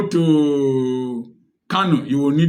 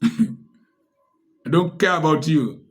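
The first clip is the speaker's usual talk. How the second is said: laughing dismissal; much slower than usual. Real, not acted. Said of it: "laughing defiance".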